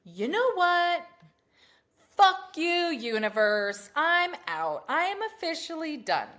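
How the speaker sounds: loud, high mock rant at the universe; mini tantrum. Woman venting at the universe during a drive, loud mock tantrum. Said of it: "a little mini tantrum".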